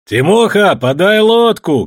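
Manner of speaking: loud, slow call from the ship; man calling from a steamer to a boatman, shouting. A narrator's reading. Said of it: "крикнул Иван с парохода".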